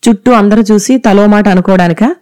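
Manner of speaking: a sharp, curt retort; snapping curtly. Acted. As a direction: snap back at the daughter with irritation. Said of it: "విసురుగా అంది".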